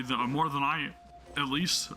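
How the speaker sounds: talking through hiccups; hiccuping between words. Real, not acted. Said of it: "I'm, I'm hiccuping".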